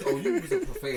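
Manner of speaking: put-on talking down to a child. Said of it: "talked to him like he was a child".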